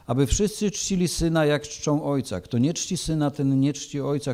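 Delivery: measured, solemn Gospel reading; scripture reading. Acted. Preacher reading John to the church, solemn and measured. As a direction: read the Gospel to the congregation with gravity. Reads John chapter five.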